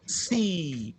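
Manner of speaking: whispered "Si" without the p; whispered wrong take. Shown as a demonstration. Teacher echoing the students' wrong "Si" in a whisper. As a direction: breathe the students' "Si" back at them.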